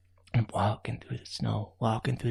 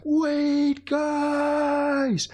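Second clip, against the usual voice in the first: high, louder call; calling after; 13 semitones higher, 3 dB louder than usual. Acted. Raccoon calling after the flying ants, urgent.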